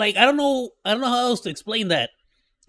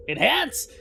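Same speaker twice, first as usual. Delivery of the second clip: mock CSI; 9 semitones higher, slower than usual. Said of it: "C S I!".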